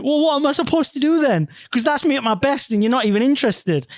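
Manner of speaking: high-pitched mock crying complaint; imitated tearful protest. Wife rejected by her new husband, mock tearful protest. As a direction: act out her upset, pitched well up.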